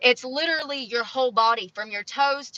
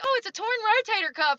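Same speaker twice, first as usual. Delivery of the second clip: doctor voice; 11 semitones higher than usual. Retold or imitated. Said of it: "they're like".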